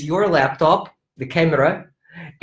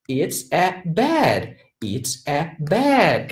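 slow, spaced-out card naming; name it slowly and clearly for young learners; teacher showing card; much slower than usual. Shown as a demonstration. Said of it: "I say".

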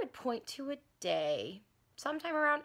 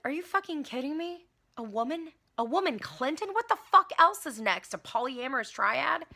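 higher, louder indignant voters; mock outrage; 5 semitones higher, 3 dB louder than usual. Voters facing a woman Clinton, higher mock outrage. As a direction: sputter with disbelief.

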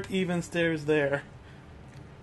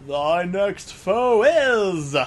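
slow, drawn-out announcer voice; booming game show host; 5 dB louder, much slower than usual. Pretend. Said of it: "Dorman now has a game show host voice".

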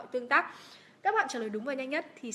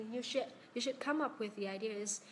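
"you should come up with the ideas" in one linked run; flowing model of "you should come up with the ideas"; connected reading; 5 dB quieter than usual. Shown as a demonstration. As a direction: read "you should come up with the ideas" at normal speed, words joined. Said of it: "Cô đọc lại câu cuối đi ạ".

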